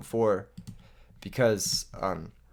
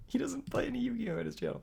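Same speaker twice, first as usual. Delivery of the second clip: a hushed whisper under the breath; whispered aside; 11 semitones higher, 9 dB quieter, faster than usual. Real, not acted. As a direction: drop to a whisper like sharing a secret. Aside about the opponent's channel.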